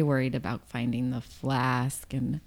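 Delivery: soft worried whisper. Acted. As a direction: drop to a whisper. Confiding worry.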